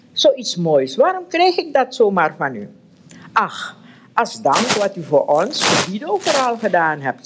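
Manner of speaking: reading a novel aloud to the group, voicing the characters; steady read-aloud narration with mild character voices; story reading. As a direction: tell it like a storyteller, lightly acting each figure.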